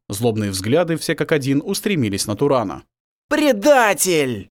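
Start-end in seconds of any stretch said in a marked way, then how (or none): 3.3-4.5 slow, drawn-out hiss of "Предатель"; hissing accusation. Acted. Captives hiss at the turncoat werewolf, slow and venomous. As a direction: spit "Предатель!" out slowly like a hiss. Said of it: "зашипели голоса".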